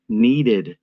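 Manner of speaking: "needed" pressed hard and held a beat; stress on needed. Shown as a demonstration. Narrator urging viewers, stress on "needed". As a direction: lean on the word "needed". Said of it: "I can't emphasize that word enough".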